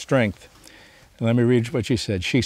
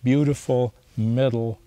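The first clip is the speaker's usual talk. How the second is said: imagined words of the kind therapist, tender and reassuring. Retold or imitated. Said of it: "It was like she was saying".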